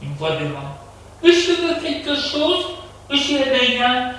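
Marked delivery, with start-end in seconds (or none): 1.2-4.1 high, polite servant voice; maid's voice. A narrator's reading. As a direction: enquire as the maid, pitched high. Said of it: "C'est la voix de la bonne". (voix haute de bonne)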